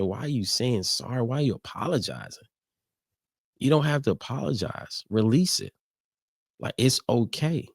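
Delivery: reassuring manager. Retold or imitated. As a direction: imitate a manager soothingly granting permission to cry. Manager reassures him as he cries.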